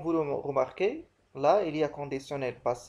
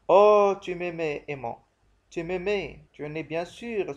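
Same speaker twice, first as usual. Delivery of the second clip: grand tragic stage delivery; 5 dB louder than usual. Acted. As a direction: cry it out like Antigone on stage. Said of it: "Voilà donc cette réplique". (déclamation tragique, lente et forte)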